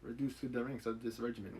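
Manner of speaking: a fading, lightly held French accent; half-kept mock French accent. Shown as a demonstration. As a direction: try to keep the French accent going. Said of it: "Hard for me to maintain the French accent".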